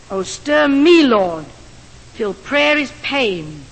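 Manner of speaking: slow, measured prayer with long pauses; solemn closing prayer to the Lord; prayerful recitation. Real, not acted. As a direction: pray it aloud, lingering on each line.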